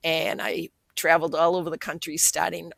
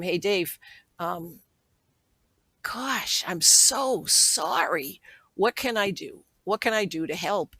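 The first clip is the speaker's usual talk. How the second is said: sorry and shaken; 2 semitones higher than usual. Retold or imitated. Sister answering brother's HIV news.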